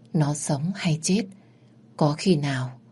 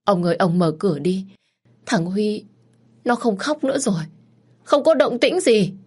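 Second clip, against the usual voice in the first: desperate begging; 5 semitones higher than usual. Acted. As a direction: beg the husband, panic climbing. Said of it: "khẩn khoản van xin".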